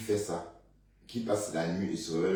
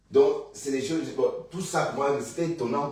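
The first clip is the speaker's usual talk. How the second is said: astonished; 6 semitones higher, 4 dB louder than usual. Real, not acted. High astonished voice.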